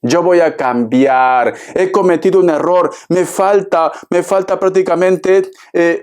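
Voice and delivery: lightly voiced ex begging to come back; mild mock plea from an ex who says he has changed; pleading ex-lover. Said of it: "Te va a contar su historia, que lo ha pasado mal".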